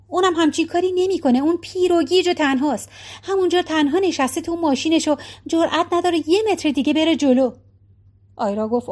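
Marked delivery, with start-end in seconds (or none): 0.1-7.5 lightly higher, pleading wife; a touch of a worried wife; Maggie's voice. Acted. (صدای نگران مگی)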